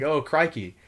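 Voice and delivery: hammed-up mock Aussie accent; a lightly put-on Australian twang; Steve Irwin accent. American Marine mocking Australians, in a lightly faked Aussie accent. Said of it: "if I said, like".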